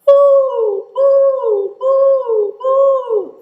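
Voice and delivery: high, loud hooting; steady owl hoots in head voice. Pretend. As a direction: hoot like an owl. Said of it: "can you be a, an owl?".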